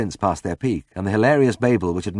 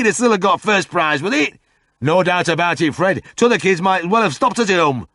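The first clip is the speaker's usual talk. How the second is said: put-on higher, louder old local voice; grumbling pub regular; gossiping Yorkshire drinker; 12 semitones higher, 5 dB louder than usual. A narrator's reading. George and Fred grumble in pub.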